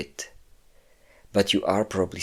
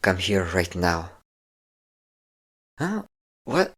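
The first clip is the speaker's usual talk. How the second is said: menacing captor. Acted. Captor taunts the prisoner, menacing and controlling. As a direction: toy with the captive, cold and in command.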